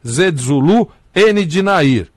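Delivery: letter by letter with words; spelling it out. Shown as a demonstration. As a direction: spell each letter clearly. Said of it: "Vou, vou soletrar pra você".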